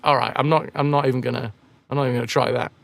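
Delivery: opt out in a low, understated voice; giving up. Acted. Streamer declining to attempt a Jamaican accent, giving up. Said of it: "or be like".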